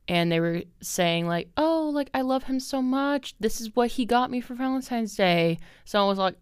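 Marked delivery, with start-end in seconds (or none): 1.6-5.6 gushy coworker impression. Mocking coworkers gushing about partners.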